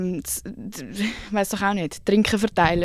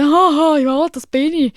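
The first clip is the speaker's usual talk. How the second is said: awkward laugh; 7 semitones higher, 7 dB louder, slower than usual. Retold or imitated. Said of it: "Und dann ich so".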